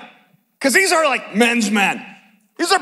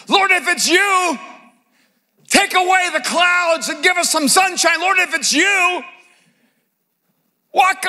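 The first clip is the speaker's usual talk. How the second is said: mock demanding Peter; 4 semitones higher than usual.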